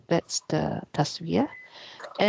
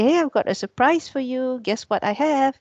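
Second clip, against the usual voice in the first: inspiring; 5 semitones higher, 3 dB louder than usual. Shown as a demonstration. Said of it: "when you want to inspire somebody".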